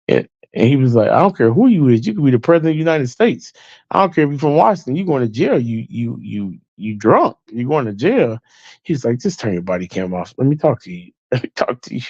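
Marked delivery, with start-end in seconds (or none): 1.1-8.4 mocking officer. Officer scolding drunk chief. 9.2-12.0 softer pleading half-whisper; imitated drunk whisper. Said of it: "He's whispering".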